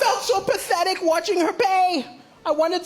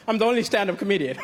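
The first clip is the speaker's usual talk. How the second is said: usual speaking voice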